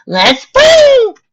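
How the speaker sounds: very high, long-drawn whoop; party shout. A narrator's reading. Pinkie calls everyone to start the party, whooping. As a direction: yell it out high, stretching the words.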